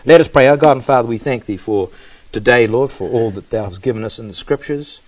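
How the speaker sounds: subdued address to God; closing prayer. Real, not acted. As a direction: settle into a quiet prayer.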